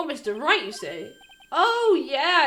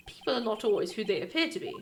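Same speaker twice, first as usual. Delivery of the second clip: menacing assassin; 4 semitones lower than usual. Acted. Assassin character speaks to Phoenix.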